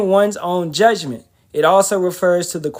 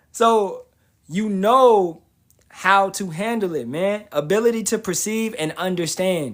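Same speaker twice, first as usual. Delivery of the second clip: ordinary talk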